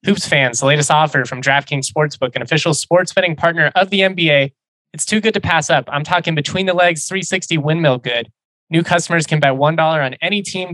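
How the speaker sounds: upbeat sponsor read, bright pitch. Acted. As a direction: sell it like a radio spot. Reads sponsor ad copy.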